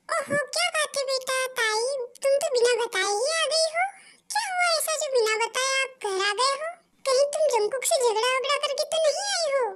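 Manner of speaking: a mom surprised her daughter came home unannounced; mother asking her daughter what happened, lightly voiced. Mother greets arriving daughter.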